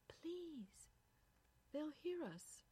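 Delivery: anxious hushed plea. Acted. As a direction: plead with him to keep his voice down. Wife begs him to hush.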